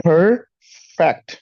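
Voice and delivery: परफेक्ट with an aspirated फ and a retroflex ठ at the end; परफेक्ट ending in ठ, never a t; perfect with soft f. Shown as a demonstration. Teacher models परफेक्ट with फ and ठ sounds. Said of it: "फा की आवाज से".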